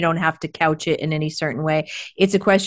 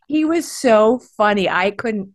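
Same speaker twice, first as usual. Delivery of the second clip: usual speaking voice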